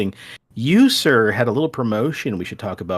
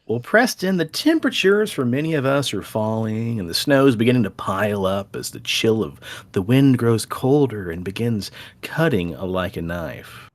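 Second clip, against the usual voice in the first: spooky storyteller intro. Acted. Spooky episode intro narration.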